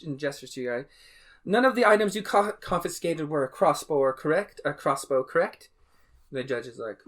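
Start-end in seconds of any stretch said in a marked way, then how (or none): 1.4-5.7 NPC question. Acted.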